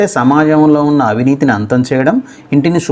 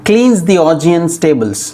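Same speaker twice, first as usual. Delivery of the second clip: slow careful reading; 4 semitones higher, much slower than usual. Shown as a demonstration. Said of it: "ఎలా పలకాలో first చూద్దాం".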